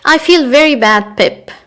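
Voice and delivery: mildly tearful plea to Pip; sobbing. A narrator's reading. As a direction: read it as if tearful, lightly. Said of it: "she sobbed".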